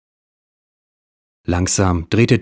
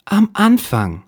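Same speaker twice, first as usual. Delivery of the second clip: higher, louder put-on detective line; cool detective; 14 semitones higher, 4 dB louder, slower than usual. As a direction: answer coolly, unimpressed. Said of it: "antwortete Dick kühl".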